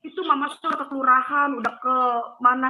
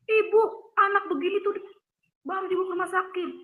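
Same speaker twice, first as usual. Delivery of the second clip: scolding; 5 semitones higher, faster than usual. Retold or imitated. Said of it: "mama saya diomelin".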